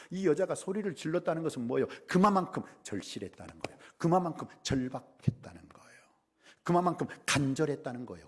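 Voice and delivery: usual speaking voice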